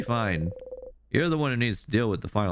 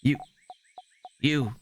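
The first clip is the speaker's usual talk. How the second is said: higher, probing and anxious; worried Isabeau; 8 semitones higher than usual. Acted. Isabeau questioning Bonnie's friend after the fall, anxious. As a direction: question gently but urgently.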